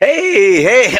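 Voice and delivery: high, cracking voice. Greeting at the start of the recording, voice cracking. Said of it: "my voice is cracked".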